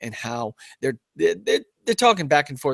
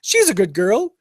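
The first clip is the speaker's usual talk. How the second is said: Jimmy; 8 semitones higher, 5 dB louder than usual. Retold or imitated. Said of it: "Jimmy's like".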